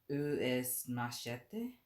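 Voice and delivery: attempting French. Shown as a demonstration. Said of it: "I can try".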